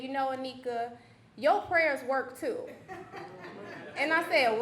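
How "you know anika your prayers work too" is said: lightly voiced grandmother; grandmother's gentle words. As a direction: grandmother gently telling Anika her prayers count. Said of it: "And she said".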